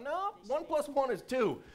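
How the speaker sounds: high nerd voice pedantically correcting; be the pedantic math nerd; nerdy correction. Retold or imitated. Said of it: "I'm a math nerd".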